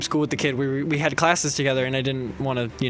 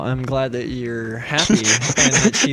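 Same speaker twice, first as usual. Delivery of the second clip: lower, sweet and friendly; low cute voice; 5 semitones lower than usual. Retold or imitated. Friend telling a rival he's glad for them, low cute voice. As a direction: say it low and cute, like good news. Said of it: "cute voice".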